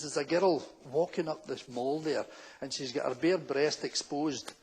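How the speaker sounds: put-on low, slow, soft old woman; hushed, measured complaint from an old dear. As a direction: imitate a scandalised elderly woman reporting. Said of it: "this old woman comes out to me".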